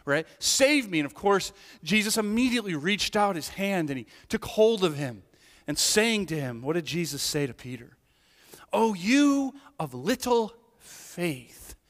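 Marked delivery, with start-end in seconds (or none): 0.4-1.0 higher, louder pleading cry; cry for help. Retold or imitated. Preacher repeating Peter's desperate cry to Jesus, loud and high. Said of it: "he cried out". 8.7-11.8 gentle rebuke. Acted. Jesus rebuking Peter.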